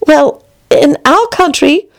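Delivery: high, slow, slightly breathless Alice; panting a little. A narrator's reading. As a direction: catch your breath between phrases. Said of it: "panting a little".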